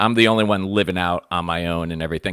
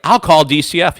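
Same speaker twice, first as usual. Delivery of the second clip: mock kid threat; 8 semitones higher, 6 dB louder than usual. Brother threatening dad.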